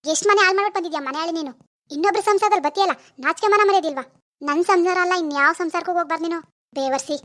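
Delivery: fierce tongue-lashing of a rival woman; angry scolding. Acted. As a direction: berate her, spitting out each insult. Wife scolds home-wrecker woman.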